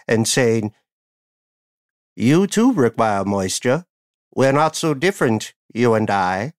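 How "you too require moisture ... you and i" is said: lightly voiced movie villain, measured and deliberate; evil billionaire villain. Evil billionaire courting a species of fungus, lightly villainous. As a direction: play a hint of scheming supervillain. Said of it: "the world's most evil billionaire talking to some species of fungus".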